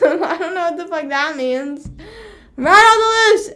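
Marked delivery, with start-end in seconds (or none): 2.6-3.5 high, loud mock alarm; all-caps shout. Streamer reading out an all-caps message, shouted. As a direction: blurt it out like a message in capitals. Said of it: "all caps".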